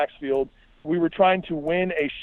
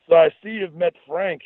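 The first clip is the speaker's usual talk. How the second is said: put-on goofy Scottish accent; 3 semitones higher than usual. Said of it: "exaggeratedly goofy Scottish accent".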